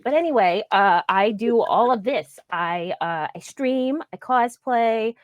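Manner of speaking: Harley Quinn signing off to the chat. Pretend. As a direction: keep the cartoon sidekick voice going. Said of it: "while keeping a voice going".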